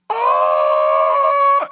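long, high, loud wail; imitated scream. Healed man suddenly starts screaming, imitated high scream. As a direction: scream it out in one held note. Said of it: "starts screaming".

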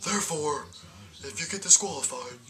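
lightly hammed-up slimy general manager; smarmy boss. Laurinaitis voiced, smarmy boss.

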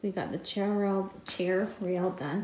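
tongue-tied, stumbling over words; with a sore jaw. Real, not acted. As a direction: struggle to get the words out. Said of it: "Talking is hard today".

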